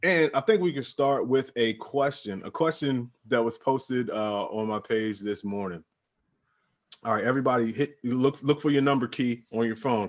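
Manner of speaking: upbeat show-opening host voice; podcast host intro. Acted. To the listeners, opening the show officially as host.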